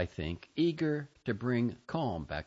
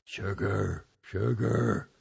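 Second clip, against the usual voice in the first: mild yelling; 4 dB louder, much slower than usual. Retold or imitated. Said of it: "bacteria yelling".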